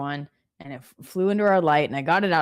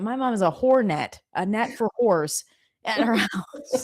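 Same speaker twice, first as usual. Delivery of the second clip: put-on childlike singsong, slow, breaking into a laugh; lightly voiced little boy, laughing at the end; imagined son at daycare; 3 semitones higher, slower than usual. Son telling daycare about his mom, giggling. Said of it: "he's gonna".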